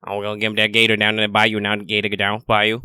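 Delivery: quick mock deep swamp southern accent; playful bayou southern accent, rattled off fast. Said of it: "deep swamp southern".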